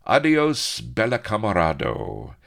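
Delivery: loud, high farewell call; ringing shout of goodbye; calling back. Acted. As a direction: call it back over your shoulder. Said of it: "calling back".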